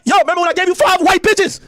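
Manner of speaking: mock rapper voice. Impersonating a rapper pleading to LeBron.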